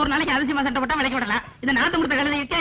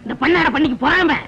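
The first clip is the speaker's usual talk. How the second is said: loud, indignant telling-off; angry scolding; 4 dB louder than usual. Acted. Leader snapping at his lackey over a remark, angry scolding. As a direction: tear into him with insults.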